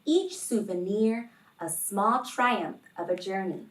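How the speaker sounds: expressive picture-book read-aloud; reading to children. Acted. Teacher reading a picture book aloud to kids, gently expressive. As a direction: read the story warmly to the class.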